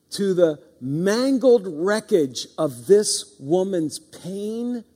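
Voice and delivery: slow, deliberate sermon storytelling; very slow, solemn preacher's retelling; slow preaching. Acted. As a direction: draw each phrase out to paint the scene.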